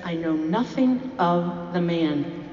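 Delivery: slow, deliberate oath; sworn denial. Acted. Peter swearing to the bystanders, slow sworn denial. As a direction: draw out the denial word by word. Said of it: "Now Peter invokes another oath".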